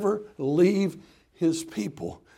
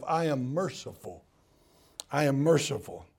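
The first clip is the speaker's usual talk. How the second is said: gentle; 2 semitones lower than usual. Acted. God gently introducing himself.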